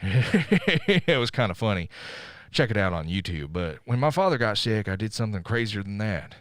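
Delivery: lightly voiced Cage monologue, dramatic; a hint of brooding movie narrator; Nick Cage impression. Podcaster doing the Ghost Rider opening as Cage, lightly voiced. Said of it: "here's my best Nick Cage impression".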